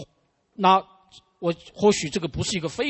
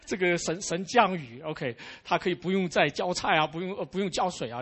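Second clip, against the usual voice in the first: mildly delighted, imitating a happy mother; a touch of retold joy; 3 semitones higher than usual. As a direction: voice a mother's relief lightly. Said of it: "非常的高兴".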